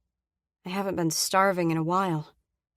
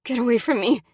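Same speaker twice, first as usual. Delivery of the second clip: higher and louder, pushing him off; huffy; 5 semitones higher, 6 dB louder than usual. Acted. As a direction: shove the words at him breathlessly. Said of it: "I huff".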